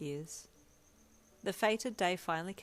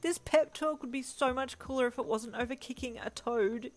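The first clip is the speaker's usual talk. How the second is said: higher, louder exasperated yell; frustrated yelling; 7 semitones higher, 5 dB louder than usual. A narrator's reading. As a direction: shout back over the struggle. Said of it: "you yelled".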